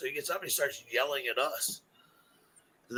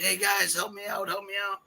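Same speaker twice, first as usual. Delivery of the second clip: higher-pitched imitation of a man begging for help; mock pleading; 8 semitones higher than usual. Runaway at the gate to drinkers, mock pleading. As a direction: play the stranger calling urgently for help. Voices stranger fleeing to his gate.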